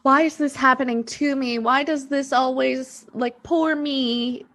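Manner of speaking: playfully voiced "why me" complaint; victim voice. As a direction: put on a hint of a self-pitying victim. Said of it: "that voice when I speak of the victim mentality".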